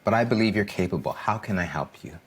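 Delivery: supportive parent voice; reassuring. Retold or imitated. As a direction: encourage the nervous child. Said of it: "no, to say that".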